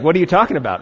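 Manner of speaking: baffled, badly faked Indian accent. Someone in India not getting the idiom, bad Indian accent. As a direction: question it in a poor imitation Indian accent. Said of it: "That's a horrible Indian accent".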